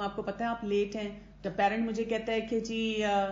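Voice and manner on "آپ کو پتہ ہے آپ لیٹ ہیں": calm, unhurried question to a late parent; teacher calmly asking a late parent. Retold or imitated. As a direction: ask it gently, no blame. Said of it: "بہت آرام سے کہتی ہوں".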